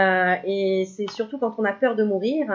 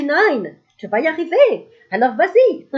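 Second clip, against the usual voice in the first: put-on German-accented cheer, much higher and louder; 8 semitones higher, 11 dB louder than usual. The speaker cheers viewer Nine in a hammed-up German accent. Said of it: "je prends un accent, euh, allemand".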